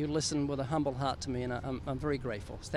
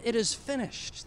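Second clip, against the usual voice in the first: slow, weighty and a little higher; solemn last words; 5 semitones higher than usual. Retold or imitated. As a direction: lay out each word slowly like last words. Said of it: "He said".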